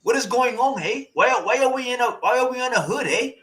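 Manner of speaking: a put-on street preacher voice, ranting "eh?"; mock activist rant. Streamer parodying a debate speaker with a put-on ranting voice. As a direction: play a heated hood orator asking questions.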